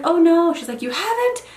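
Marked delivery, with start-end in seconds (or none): 0.1-0.5 higher, louder "Oh no"; mock dismay. Her reply, retold. 0.8-1.4 much higher "You haven't?"; imitating neighbor's disbelief.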